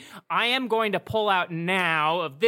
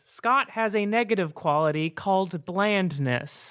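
hushed nature documentary. Acted. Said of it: "Narrator voice".

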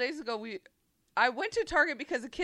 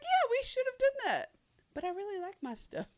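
mock sheepish; 10 semitones higher than usual. Retold reply to husband.

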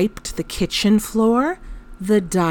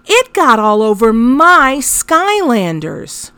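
higher, louder mock-indignant child; 4 semitones higher, 4 dB louder than usual. Mother imitating her toddler's indignant complaint. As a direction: play the outraged little boy. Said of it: "he declared indignantly".

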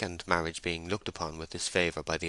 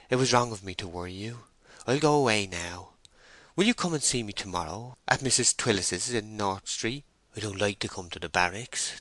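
lightly voiced meek female character; apologetic young woman; 2 semitones higher than usual. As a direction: apologise meekly, then ask timidly.

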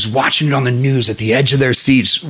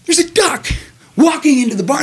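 high, startled bartender; 14 semitones higher than usual. Acted. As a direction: gasp it out as a shocked barman. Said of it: "the bartender's like".

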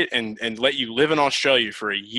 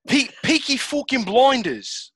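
higher, slow, hammed-up Irish accent; attempted Irish accent; 12 semitones higher, slower than usual. Shown as a demonstration. Stumped host tries show title, hammed-up Irish accent. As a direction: draw it out in a mock Irish accent. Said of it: "Can you do an Irish accent".

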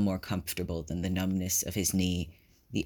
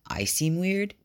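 incredulous; 10 semitones higher, slower than usual. A narrator's reading. Hinata echoes in disbelief.

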